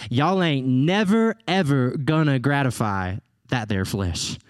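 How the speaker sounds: lightly imitated Southern US preacher. Paul preaching in the South, light Southern US accent. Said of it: "if Paul were preaching in the South of the U S today".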